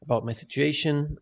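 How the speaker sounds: speaking in a bare echoing room; echoey room. Real, not acted. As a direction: room echo around the voice. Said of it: "if I sound echoey".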